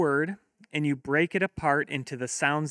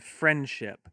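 friendship said slowly, two clear parts; slow syllables. Shown as a demonstration. Teacher modelling clapping for kids, friendship slowed into two beats. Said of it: "have your kids clap".

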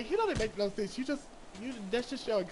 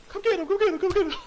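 loud, higher urgent yells; yelling come get him; 10 semitones higher, 8 dB louder, faster than usual. Real, not acted. Shouting at the game character to come get him, loud and urgent. Frantic gaming, urging attack.

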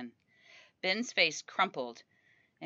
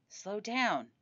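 higher, drawn-out whine; whining to Otter; 4 semitones higher than usual. Acted. Sick son complaining to dad, whining. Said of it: "I whined to Otter".

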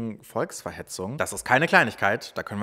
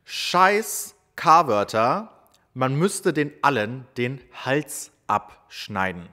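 slow, emphatic quoted shout; half-shouted quote, drawn out; retold shout; 2 semitones higher, 5 dB louder, much slower than usual. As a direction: read out a yell word by word, slowly. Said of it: "schrie er".

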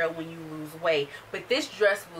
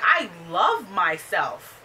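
slow self-assured; 2 semitones lower, much slower than usual. Retold or imitated. Janice answering the leader.

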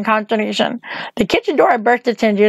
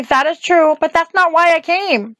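put-on a light girlish pitch, lifted higher; young Dorothy; 6 semitones higher than usual. Dorothy answers the witch on the tower, higher girlish voice. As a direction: voice the girl a notch up.

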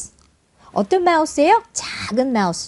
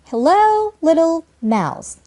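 "Hello" raised high, pause, then "little mouse"; chunked reading; 5 semitones higher, much slower than usual. Shown as a demonstration. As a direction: break after "Hello", then let "mouse" fall. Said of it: "이렇게 끊어 읽죠".

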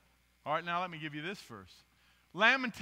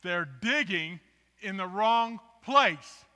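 louder, slow retold line; lightly voiced movie character; mock movie quote; 2 semitones higher, 10 dB louder, much slower than usual. Preacher quoting Indiana Jones, slow and louder. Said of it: "Anybody know what they said".

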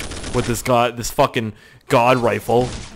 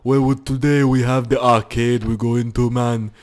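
Arnold impression. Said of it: "I'm Arnold".

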